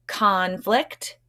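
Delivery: conflict said as a model word for the class to repeat. Shown as a demonstration. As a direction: say conflict clearly for kids to echo. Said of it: "Say it".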